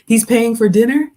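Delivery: loud, high disbelieving question; surprised. Real, not acted. Streamer thanked for dinner money, surprised. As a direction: gasp it out in delight.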